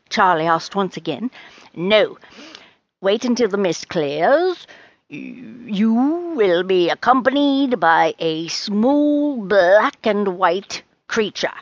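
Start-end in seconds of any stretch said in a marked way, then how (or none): 1.7-11.5 mysterious fortune teller. Acted. Rose reveals Charlie's companion, slow mysterious pronouncement. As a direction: reveal it slowly, with suspense.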